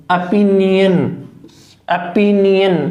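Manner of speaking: ओपिनियन said slowly and clearly as "a-pi-ni-an"; careful classroom pronunciation of ओपिनियन; teacher modelling a word. Shown as a demonstration. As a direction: sound out ओपिनियन syllable by syllable for students. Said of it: "ओपिनियन pronunciation नहीं है".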